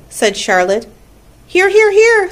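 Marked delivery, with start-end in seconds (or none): 1.5-2.3 high, loud triple answer; honking goose. A narrator's reading. Goose answers the roll call, high loud honking. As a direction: honk it out like a goose. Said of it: "said the goose".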